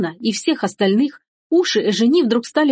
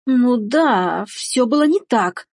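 slow, higher-pitched sheepish admission; reluctant mumble; 4 semitones higher, much slower than usual. Acted. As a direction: own up grudgingly, dragging it out. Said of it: "забормотала Эжени". (нехотя бормочет признание)

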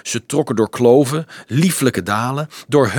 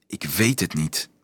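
soft, low near-whisper; hushed and lowered; 5 semitones lower, 7 dB quieter than usual. A narrator's reading. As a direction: say it very softly, unsure. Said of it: "fluisterde ze".

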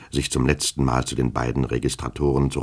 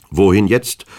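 louder, surly snap of a bored servant; gruff and impatient; 5 semitones higher, 8 dB louder than usual. A narrator's reading. Servant Petruschka to his master, gruffly impatient. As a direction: grumble it out, fed up with waiting. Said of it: "fragte Petruschka ziemlich unwirsch".

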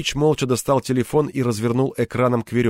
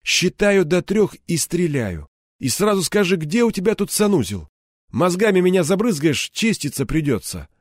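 cold threat; 6 semitones higher than usual. Acted. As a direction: threaten him almost casually. Threat with a gun.

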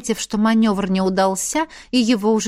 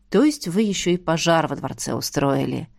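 weary sigh; 3 semitones lower than usual. Acted. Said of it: "вздохнул полковник".

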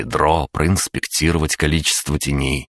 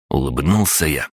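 ordinary delivery

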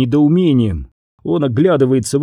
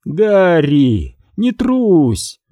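goading; 4 semitones higher, much slower than usual. A narrator's reading. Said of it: "подзадоривать его Макс".

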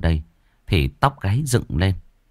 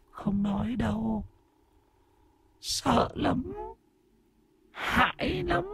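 high, much softer, fearful; frightened ghost girl; 11 dB quieter, slower than usual. Acted. Ghost girl refuses to speak, high and frightened. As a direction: whimper it in a small scared voice.

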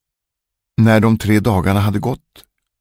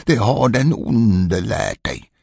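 mild yell; 3 semitones higher, slower than usual. Acted. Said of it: "skrek han".

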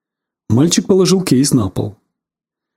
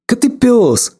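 angry shout; 8 semitones higher, slower than usual. Acted. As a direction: bark it at the dogs. Boy threatens barking dogs. (сердитый окрик)

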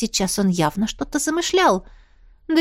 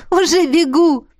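cheerful; 6 semitones higher, 5 dB louder than usual. Acted. Heroine laughing, running off.

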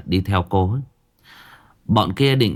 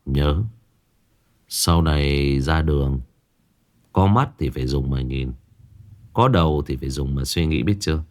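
Nam coldly warns the thug to use his eyes; cold lecture; 6 semitones lower than usual. Acted.

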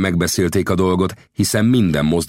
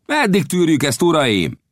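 high-pitched indignant call; exclaiming; 11 semitones higher than usual. Acted. Gibson turning to his companions, crying out. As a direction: appeal to the group, voice raised in pitch. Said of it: "társaihoz fordulva felkiáltott".

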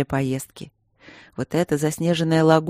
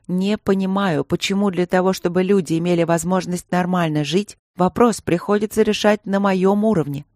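cold, stern anger; 2 semitones higher than usual. Acted. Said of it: "была очень рассержена".

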